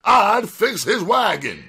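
very high, emphatic boasting; shrill, cocky female character; defiant, mouthy woman. Acted. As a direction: rant high-pitched and unafraid. Donna keeps goading.

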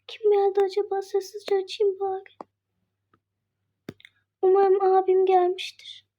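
sneaking whisper; hushed whisper. Pretend. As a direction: tiptoe it quietly. Sneaking to open door quietly.

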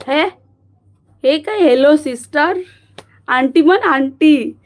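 mock scolding. Scolding a viewer for saying sister.

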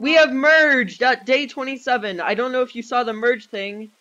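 hyped, slightly hammed-up sales pitch; commercial scam guy. Real, not acted. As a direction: push it like a loud TV pitchman. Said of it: "I sound like some commercial scam guy".

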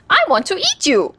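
put-on high, eager old woman; hungry old woman voice. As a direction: call out like a hungry granny. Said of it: "cried the old woman".

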